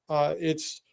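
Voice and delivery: puffing and laughing, words breaking up; laughing out of breath. Real, not acted. Laughing breathlessly, handing the talk to his co-host. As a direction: blow out a breath, then laugh through the words. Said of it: "I'm gonna catch my breath".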